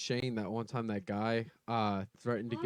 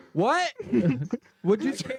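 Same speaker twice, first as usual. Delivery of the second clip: higher challenging what'd you say; mock tough guy; 8 semitones higher, slower than usual. Imagined armed reply to the road rager, higher and mocking. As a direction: act tough with a laugh. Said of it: "I'd been like".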